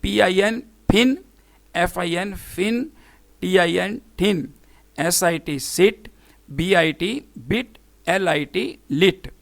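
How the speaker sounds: letters first, then each word like टिन with short I; short I demo. Shown as a demonstration. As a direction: spell it out, then फिन with short I as in "pin". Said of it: "देखें कैसे pronounce करते हैं".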